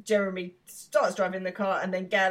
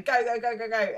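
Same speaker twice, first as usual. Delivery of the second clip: higher, quick-fire mock panic; mock frantic urging; 4 semitones higher than usual. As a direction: imitate someone madly hurrying the driver. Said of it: "going mad".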